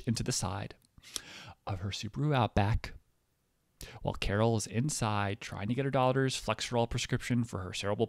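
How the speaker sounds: deliberate announcer read with weighty pauses; mock public service announcement. Comedian delivering a satirical public service announcement, declamatory. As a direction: read it out like a formal statement.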